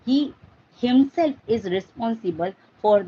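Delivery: firm weight on HIMSELF; emphatic stress on HIMSELF; forceful HIMSELF. Shown as a demonstration. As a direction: press on HIMSELF to single him out. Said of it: "Forcefully you want to say this".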